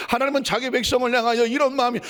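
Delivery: normal talking voice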